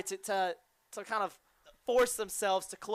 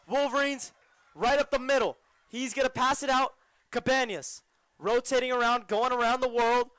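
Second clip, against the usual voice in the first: lively, slightly raised sports call; live play-by-play; 4 semitones higher than usual. Real, not acted. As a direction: follow the ball with your voice. Live play-by-play of the ball moving.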